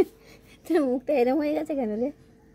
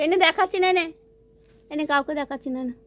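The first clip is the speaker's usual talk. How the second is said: voicing the cat; 4 semitones higher than usual. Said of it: "সে খাওয়া বন্ধ করে দিয়ে".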